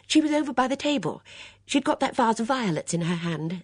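high, loud, eager interjection; breathless. A narrator's reading. Miss Bunner eagerly answers for her friend, breathless. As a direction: jump in breathlessly, pitched high. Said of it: "said Miss Bunner breathlessly".

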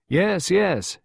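high, swooping call back; airy called-back assurance. A narrator's reading. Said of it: "Henry called back".

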